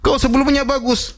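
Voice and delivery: high, sneering mock voice of the scoffers. Scoffers taunting the prophet Saleh, high mocking voice. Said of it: "Jadi mereka ngejek".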